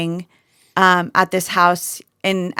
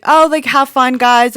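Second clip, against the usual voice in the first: higher, louder breezy oh like have fun guys; breezy host; 5 semitones higher, 4 dB louder than usual. Retold or imitated. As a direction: wave them off carelessly. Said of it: "he's like".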